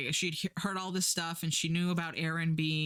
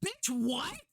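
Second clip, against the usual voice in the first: incredulous; 8 semitones higher than usual. Retold or imitated. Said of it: "And it's like".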